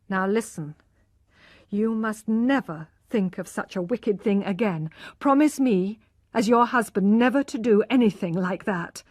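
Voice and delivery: husband sternly demanding a promise; firm husband. Acted. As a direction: make her promise, firmly.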